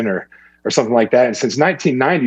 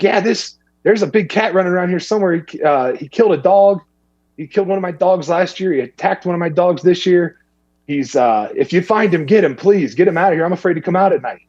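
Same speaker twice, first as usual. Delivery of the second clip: lightly voiced anxious neighbor, pitched up; worried neighbor woman; 6 semitones higher than usual. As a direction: mimic the scared lady pleading for help. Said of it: "She's like".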